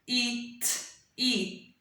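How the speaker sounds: "K-E-T-E" as separate k, ee, t, ee; sounded out. Shown as a demonstration. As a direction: sound out kitty with gaps between sounds.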